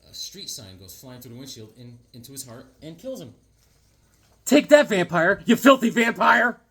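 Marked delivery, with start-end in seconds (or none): 4.4-6.6 high, loud triumphant jeer; mock hero's battle cry; gleeful cheer. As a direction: gloat over the dead vampire. Cheering the vampire's death.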